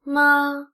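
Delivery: MA level and unaccented; "ma" as a neutral-tone syllable. Shown as a demonstration. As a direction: say "ma" evenly with no glide. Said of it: "is the neutral tone".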